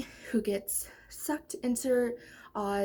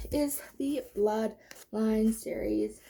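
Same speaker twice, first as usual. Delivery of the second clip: out of breath; slower than usual. Real, not acted. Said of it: "Oh my gosh, I'm out of breath".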